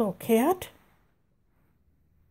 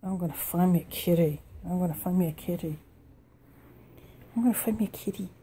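softer teasing chant; playful sing-song; 5 semitones lower, 6 dB quieter, faster than usual. Real, not acted. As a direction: chant it softly to tease the cat.

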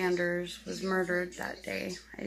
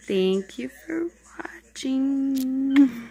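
slow breathy whispered sign-off; whispered thanks to viewers; 5 semitones higher, 6 dB louder, much slower than usual. Real, not acted. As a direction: whisper the goodbye slowly.

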